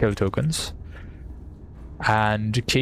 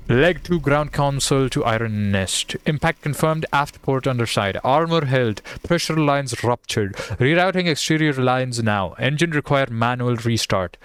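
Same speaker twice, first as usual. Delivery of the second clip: slightly raised, crisp military report; radio message read-out; 2 semitones higher than usual. Acted. Ground console reporting to Iron Nest, radio message read-out.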